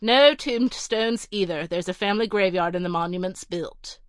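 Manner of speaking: a haughty butler reeling off a list of refusals; curt butler. Acted.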